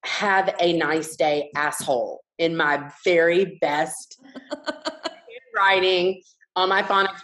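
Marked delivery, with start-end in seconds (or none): 0.1-2.2 slow deliberate. Retold or imitated. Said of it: "So I wrote".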